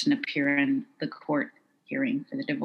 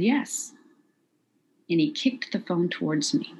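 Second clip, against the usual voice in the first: holding back tears; 2 semitones higher than usual. Retold or imitated. Woman answering her attacker, holding back tears. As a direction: answer him while trying not to cry. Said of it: "I'm trying very hard not to cry".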